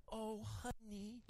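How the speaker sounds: sweet grandma voice. Retold or imitated. Mother-in-law coaxing a child to explain the picture, soft and high. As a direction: coo gently like a kindergarten teacher. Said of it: "She'll go".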